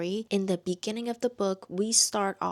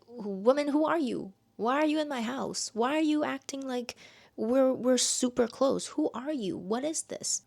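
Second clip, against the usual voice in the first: confused; 5 semitones higher than usual. Retold or imitated. Confused Ember quote in retelling.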